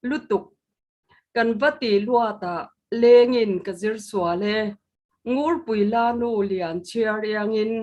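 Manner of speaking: slow, measured poetry recital; poem recitation. Acted. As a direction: recite each line with weight and pauses. Poet recites own poem.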